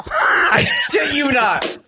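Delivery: high, slow, emphatic; insisting it really happened, high and slow; excited. Real, not acted.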